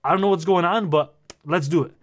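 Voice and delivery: retold nervous excitement, easing into agreement; freaking out a little. Kid agreeing to the doctor's deal, freaking out a little. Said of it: "So I start freaking out a little bit".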